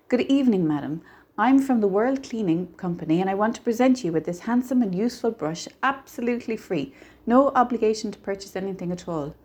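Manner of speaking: brisk door-to-door patter; salesman's pitch. Acted. Stranger showing George how to greet housewives, salesman's patter. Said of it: "You say".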